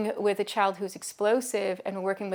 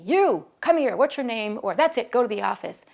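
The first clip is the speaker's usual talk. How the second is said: stern reprimand; 3 semitones higher, 7 dB louder than usual. Retold or imitated. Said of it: "the last thing I wanna do".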